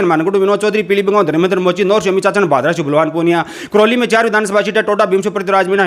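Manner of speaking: rapid-fire list recitation; all in one breath. Shown as a demonstration. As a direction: rattle off the names nonstop. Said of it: "दो सौ साठ second के अंदर बता दिए हैं".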